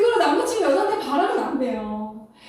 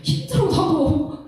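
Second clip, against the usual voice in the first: weary admission; 4 semitones higher, slower than usual. Real, not acted. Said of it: "리더 하고 싶은 말 일도 없어요".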